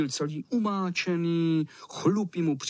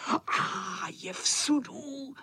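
taunting echo; 10 semitones higher, much slower than usual. Acted.

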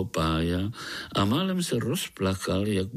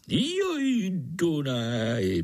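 high wistful joj falling into Dunaj; wistful sigh; 7 semitones higher, much slower than usual. A narrator's reading. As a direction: pine for the faraway river. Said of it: "posteskl si".

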